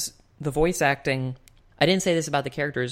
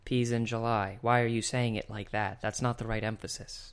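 a hint of a low, muted actor impression; Orson Welles; 3 semitones lower than usual. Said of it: "Just do an Orson Welles voice".

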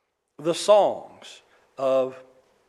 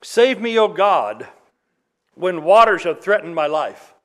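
louder, raised plea for rescue; loud pleading cry; 6 dB louder than usual. Acted. Preacher reading the psalm aloud to the congregation, loud pleading cry. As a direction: call out like a drowning man begging God. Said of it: "Psalm sixty-nine".

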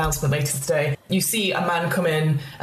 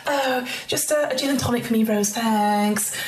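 put-on much higher gushing young woman; Jessica; 5 semitones higher than usual. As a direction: breeze in apologising and gushing. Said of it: "And she goes".

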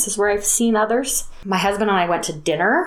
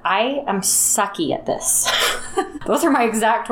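laughing at herself; 4 semitones higher than usual. Retold or imitated. Admitting to her sister she is bad at this, laughing sheepishly. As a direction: own the awkwardness with a chuckle.

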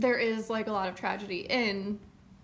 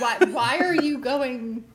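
Donkey impression; 3 semitones higher, 5 dB louder, slower than usual. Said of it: "mimicking Donkey together".

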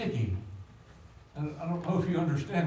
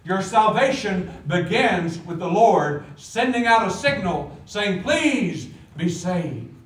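preaching appeal; 5 semitones higher, 8 dB louder, slower than usual. Real, not acted.

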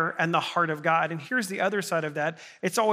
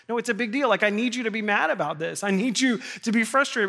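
exasperated pleading; 5 semitones higher, faster than usual. Retold or imitated. Pastor retelling how he begged his calm friend to get mad, exasperated. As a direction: push him to get upset, half laughing at yourself.

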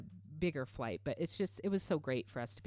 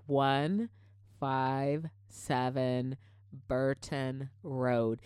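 slow, each number spoken separately with pauses; 3 dB louder, much slower than usual. Retold or imitated. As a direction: spell out "One five seven" slowly so the driver gets it. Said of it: "I'll just say the numbers one by one".

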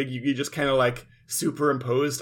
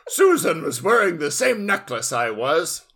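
lightly voiced offended mom; 3 semitones higher than usual. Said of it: "Yami Carol".

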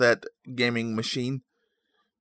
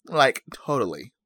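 lightly voiced valley girl; a hint of valley-girl lilt. Host repeating his silly impression, mild valley girl. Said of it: "That's my valley girl".

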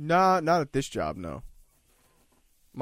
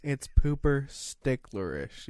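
mock drunk slur; much slower than usual. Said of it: "That's what this drunk bitch said".

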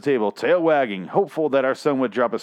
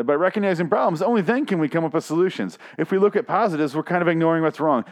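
lightly voiced teen, pitched up; teenage son; 5 semitones higher than usual. Son explains himself to parents, lightly mocked teenage voice. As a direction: read it as a higher, earnest mock kid. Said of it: "our son said".

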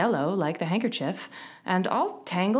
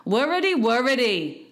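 high, loud fretful wail; peevish grumbling, pitched up; 5 semitones higher, 5 dB louder than usual. A narrator's reading. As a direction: complain like a pestered invalid. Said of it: "said in a peevish tone".

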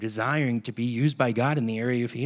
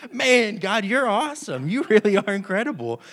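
moved praise; 8 semitones higher, 4 dB louder than usual. Retold or imitated. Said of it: "I started to tear up".

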